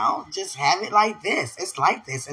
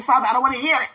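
mildly heated, higher-pitched refusal; mock protest; 7 semitones higher, 3 dB louder, much faster than usual. Woman complaining to God, mock indignant. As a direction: push back in a retold protest. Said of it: "I was mad at God".

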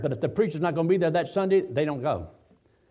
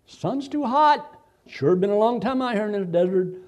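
mock complaining Israelites; 4 semitones higher than usual. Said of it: "They didn't like the food".

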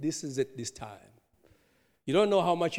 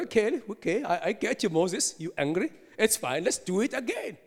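lightly voiced, higher-pitched indulgence; God letting it go; 5 semitones higher than usual. God excuses Moses for the broken tablets, lightly acted and accommodating. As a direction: reassure him, lifting at the end.

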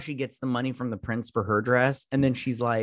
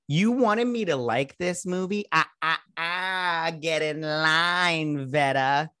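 sassy mock voice; 4 semitones higher, slower than usual. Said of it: "it's like".

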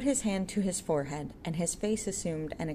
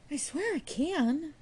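boastful; 11 semitones higher, slower than usual. A narrator's reading. Jude boasting.

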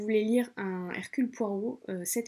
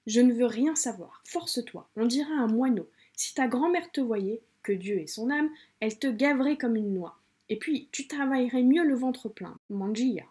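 Maria scolding in a hammed-up Italian accent, louder; mock Italian accent; 3 semitones higher, 4 dB louder than usual. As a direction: push the food on her like an Italian nonna, bad Italian accent. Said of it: "mon accent italien qui n'est pas du tout un accent italien".

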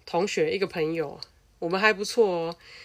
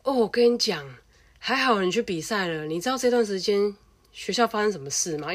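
imitating classmate; 4 semitones higher than usual. Classmate on the phone sharing school gossip, excited imitation. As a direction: play the classmate bursting with news. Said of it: "我同学就说".

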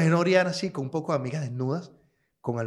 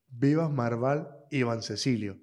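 slow roll call; slower than usual. Retold or imitated. Teacher calling full name.

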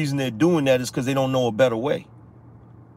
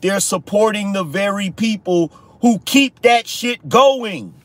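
rising rant; 5 semitones higher, slower than usual. Real, not acted. Ranting, building to a yell.

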